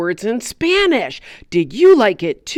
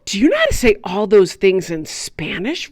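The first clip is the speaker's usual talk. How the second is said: amazed; 2 semitones lower than usual. Acted. Puppet gasps, amazed question.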